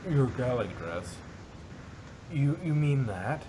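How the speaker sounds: surprised. Acted. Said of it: "Rarity gasped in surprise".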